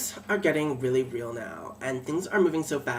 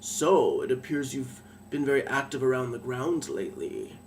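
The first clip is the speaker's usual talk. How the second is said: a lightly voiced lord, sweetly mock innocent; mock innocent villain; 2 semitones lower than usual. Lord Ronson greets her in his study, mock innocent. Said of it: "all mock innocently".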